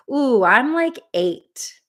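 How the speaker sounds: high-pitched mock worked-up answer; imagined participant. Voicing participants' chat answers.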